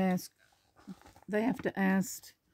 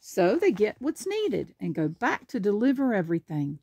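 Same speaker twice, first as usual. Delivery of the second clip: lively picture-book narration; animated storybook reading; reading to children. Acted. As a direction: read it out clearly for a small child. Reads picture book aloud.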